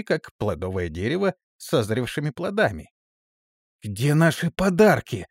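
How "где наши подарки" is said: high, loud angry question; angry demand. Acted. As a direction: shake him and demand it. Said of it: "гневно произнесла она".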